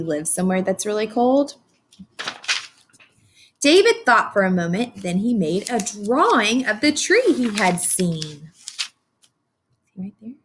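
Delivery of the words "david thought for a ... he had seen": lively read-aloud storytelling; story narration. A narrator's reading. Teacher reading to her class, animated storybook narration. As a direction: read it like a picture book to a class.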